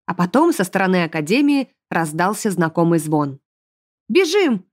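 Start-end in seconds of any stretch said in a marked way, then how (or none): 4.1-4.7 a high cried-out call; shout. A narrator's reading. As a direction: yell to run for it. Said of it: "крикнули". (громкий крик)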